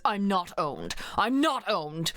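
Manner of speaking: lightly voiced Ace, smug. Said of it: "Ace voice".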